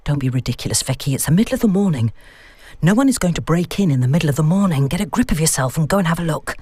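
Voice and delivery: quick, firm pep talk to herself; briskly telling herself off; brisk self-scolding. Acted. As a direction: talk yourself out of the fear fast.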